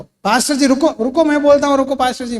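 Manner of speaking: loud, high, pushy cut-in; impatient interruption. Retold or imitated. Preacher mocking a congregant who interrupts the pastor, loud and impatient. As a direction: mimic a know-it-all stopping the pastor mid-sentence.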